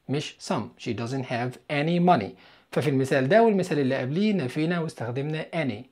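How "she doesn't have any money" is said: slow model sentence. Shown as a demonstration. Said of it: "هنقول إيه؟".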